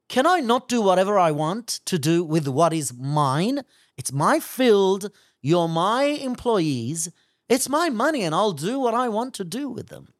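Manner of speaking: assertive landowner. Acted. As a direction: firmly lay claim to what is yours, as the acted landowner. Landowner asserts his rights in parable.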